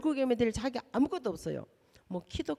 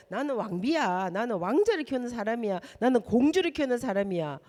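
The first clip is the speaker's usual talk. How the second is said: proud declaration. Shown as a demonstration. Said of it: "자긍심을 가지고".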